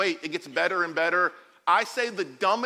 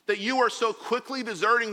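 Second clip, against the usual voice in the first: raised pitch, indignant reproach; angry, frustrated; 4 semitones higher, 4 dB louder than usual. Retold or imitated. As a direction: act out Paul's exasperated rebuke. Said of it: "frustrated. He's like".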